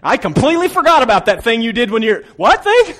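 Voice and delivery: high, loud mock innocence; squeaky, loud, playful mockery; mocking forgetful voice. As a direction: ham up the fake forgetfulness. Mocking someone who claims to forget.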